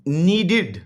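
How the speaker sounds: नीडेड in two beats with a clear "did" ending; ending pronounced id. Shown as a demonstration. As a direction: say नीडेड as नी... डिड. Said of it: "ये डिड की आवाज़ दे रहा है". (नीडेड के आख़िर में साफ़ "इड" की आवाज़)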